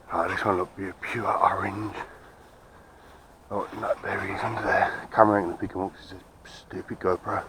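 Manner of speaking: breathing hard after a climb; puffing between words. Real, not acted. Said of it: "Excuse the breathing".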